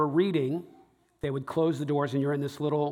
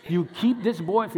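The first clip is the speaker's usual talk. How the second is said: mock praying coworker; 5 semitones higher, 5 dB louder than usual. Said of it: "She was like".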